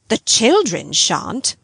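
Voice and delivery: slow, emphatic retort. Acted. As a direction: press each word, slowly. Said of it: "she emphatically returned".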